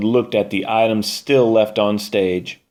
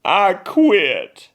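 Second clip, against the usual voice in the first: sobbing; 9 semitones higher than usual. Acted. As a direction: blubber it out through tears. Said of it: "Madge petted her taco and sobbed".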